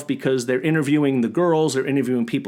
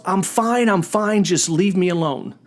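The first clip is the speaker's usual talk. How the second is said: raised pitch, mild mock yell; insistent yell, only lightly acted; imitated yell; 5 semitones higher than usual. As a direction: retell a girl yelling, pitch high then easing down. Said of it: "and yells".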